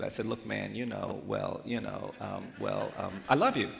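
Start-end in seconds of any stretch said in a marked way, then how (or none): 0.2-3.2 grudging, low-key stalling; insincere. Retold or imitated. Boy forced to say it to a stranger, insincere. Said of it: "trying to say as insincerely as I possibly could". 3.3-3.7 blurted out loud and high; insincere. Retold or imitated. Boy ordered by mom to say it, insincere. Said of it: "as insincerely as I possibly could".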